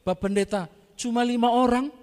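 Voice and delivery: loud, high, cheeky Manado correction. Retold or imitated. Ungke shouts his correction at the pastor, loud and high. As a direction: call out from the back in Manado style.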